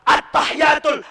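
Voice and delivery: at-tahiyatul with the tul ending clear; correct pronunciation. Shown as a demonstration. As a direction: say at-tahiyatul fully. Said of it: "Bukan at-tahiyya". (bacaan benar at-tahiyatul)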